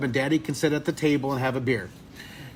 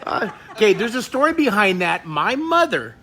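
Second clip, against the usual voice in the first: higher, louder through laughter; laughing while talking; 6 semitones higher, 5 dB louder than usual. Real, not acted. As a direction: speak through the giggles. Still laughing after shriek.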